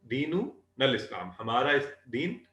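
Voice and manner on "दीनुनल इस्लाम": slow careful repeat. Shown as a demonstration. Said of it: "दीनुकुमुल इस्लाम क्या?".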